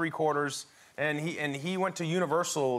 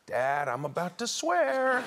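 son's whining quote; 3 semitones higher, slower than usual. Retold or imitated. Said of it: "He said, Oh".

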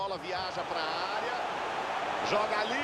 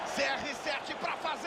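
rising excited call; 4 semitones higher than usual. Acted. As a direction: build up as the chance opens. Live goal chance call.

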